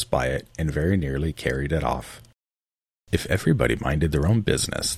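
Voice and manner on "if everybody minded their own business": hoarse growl. Acted. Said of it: "in a hoarse growl".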